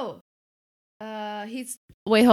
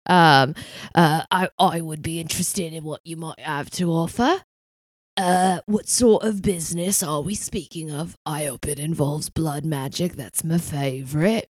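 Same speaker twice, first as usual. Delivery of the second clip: Roy Kent. Acted. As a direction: play a gruff British dealer talking business. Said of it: "scratchy male voices".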